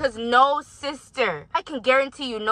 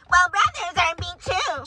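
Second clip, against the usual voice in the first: mocking the elder; 8 semitones higher than usual. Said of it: "you wanna bring in".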